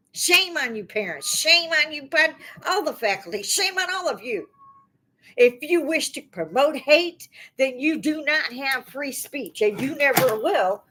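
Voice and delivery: real anger. Real, not acted. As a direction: Shame said high and hard, building to outrage. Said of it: "I'm that angry".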